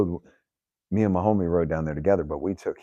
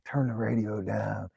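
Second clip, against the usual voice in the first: drawn-out, higher-pitched nagging; complaining old man; 4 semitones higher, slower than usual. Retold or imitated. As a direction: stretch it out like a grumpy passenger. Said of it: "He's complaining every corner".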